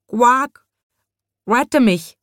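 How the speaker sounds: high, loud pleading frog voice. A narrator's reading. Frog minister begs the sweep, high pleading. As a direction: beg like a frightened frog. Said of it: "bat er".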